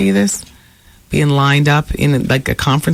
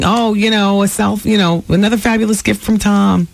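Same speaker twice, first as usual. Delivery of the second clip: gushing delight; 5 semitones higher than usual. Retold or imitated. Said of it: "here she is thinking".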